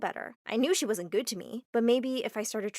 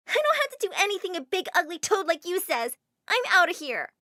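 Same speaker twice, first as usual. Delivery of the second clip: higher, louder defiant outburst; angry yell; 8 semitones higher, 5 dB louder than usual. Acted. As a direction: yell it at the teacher in fury. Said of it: "yelled at the teacher".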